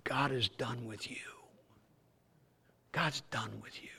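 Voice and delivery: whispered, hissing taunt; devil's whisper. Retold or imitated. Devil whispering to a believer, hushed taunt. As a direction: whisper it like the devil in your ear.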